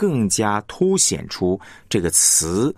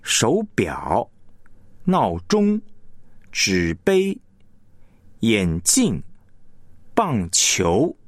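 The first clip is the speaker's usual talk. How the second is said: 表, 钟, 杯, 镜, 球 drawn out fuller than the syllable before; stress on second syllable; much slower than usual. Shown as a demonstration. Teacher lets listeners hear the difference, back-stressed words. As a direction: land on the last character of 手表, 闹钟, 纸杯. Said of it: "重音在后".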